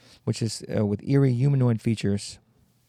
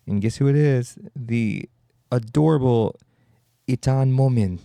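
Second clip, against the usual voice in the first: louder, hammed-up gushing reveal; mock excitement; 2 semitones higher, 4 dB louder than usual. Revealing the cute killer monster to viewers, mock gushing. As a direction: sell the adorable monster like a game show prize.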